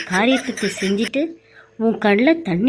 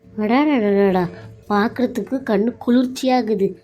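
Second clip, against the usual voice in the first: slow, drawn-out sarcastic அடாடாடாடா; sarcastic mock awe. Daughter-in-law mocks the staged reconciliation, slow and sarcastic. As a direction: stretch it out in mocking wonder. சரியா drama போடுறாங்க.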